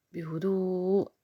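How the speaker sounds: a slow, hushed بهدوء to settle the listener; softly and calmly. Shown as a demonstration. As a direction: stretch out بهدوء like a soothing breath.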